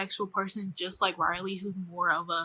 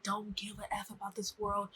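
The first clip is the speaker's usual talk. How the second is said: retold line dropped to a breathy whisper; 7 dB quieter than usual. Luz whispering her confession to Riley. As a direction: whisper it like a dark secret.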